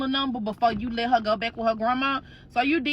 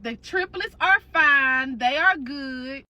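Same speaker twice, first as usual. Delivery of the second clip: slow, calm reassuring voice; slow it down to soothe a worried sister; slower than usual. Retold or imitated. Sisters-in-law on FaceTime reassuring her, slow and calm.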